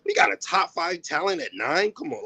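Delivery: high-pitched, thrilled "what?!" reaction; amazed draft-night outburst, retold; amped disbelief. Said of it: "I was crazy amped when we drafted".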